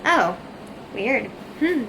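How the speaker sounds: imitating a dentist's doubtful hums, trailing off; mock the dentist humming over a problem; puzzled dentist noises. Vlogger imitates the puzzled dentist making the crown, mild mock hums. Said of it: "he's making noises like this".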